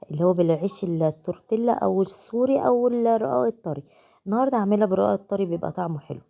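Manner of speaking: hoarse voice from a cold; sick, sore-throated voice. Real, not acted. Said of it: "معلش بقى على صوتي ده".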